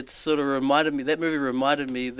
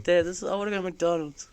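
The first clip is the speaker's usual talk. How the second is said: put-on whiny child; 5 semitones higher than usual. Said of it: "she was like".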